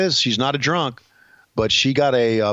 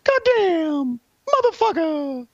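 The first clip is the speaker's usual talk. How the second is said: much higher mock curse, other timbre; Bruce Pritchard; slower than usual. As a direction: bark it out high like a cranky old pal. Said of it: "as he would say".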